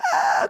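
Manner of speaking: brief mock shriek, held back; contained imitation of a screech; strident scream. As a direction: give a restrained sample of a piercing cry. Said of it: "un cri strident".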